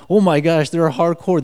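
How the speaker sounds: acted-out astonishment; astonished reaction. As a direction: exclaim it, recalling being stunned. Acting out astonishment at the youth.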